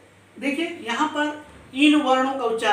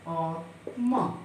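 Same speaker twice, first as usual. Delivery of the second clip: drawn-out recital; 3 semitones lower, 4 dB quieter, much slower than usual. Shown as a demonstration. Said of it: "जिसके अंतर्गत".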